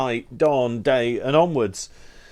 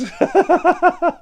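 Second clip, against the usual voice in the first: real high-pitched burst of laughter; high giggle; 4 dB louder than usual. Real, not acted. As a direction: laugh out loud at the silly title. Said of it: "It just makes me laugh so much".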